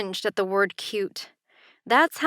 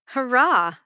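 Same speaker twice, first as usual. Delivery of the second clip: teasing; 4 semitones higher, 4 dB louder than usual. Acted. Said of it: "she teased".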